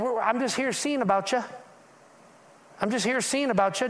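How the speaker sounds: "seeing about you" in a light Southern lilt; a hint of the Southern way of saying "I'm just here seeing about you"; Southern phrasing. Shown as a demonstration. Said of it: "if we were in the South, they would say something like this".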